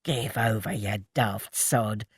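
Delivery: Ted blushing at Milly's teasing; bashful. A narrator's reading. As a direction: mumble it off shyly. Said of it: "Ted blushed".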